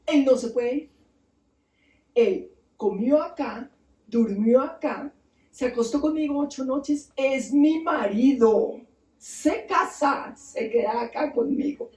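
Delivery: slow, emphatic acted demand; insistent demand. Queen claims Nergal as her husband, insistent demand. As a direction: stretch out each claim on him.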